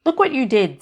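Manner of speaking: high, loud mocking demon jab; sneering demon. A narrator's reading. Demon jeering at Annie for dropping the tin. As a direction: jeer at her clumsiness like a petty demon.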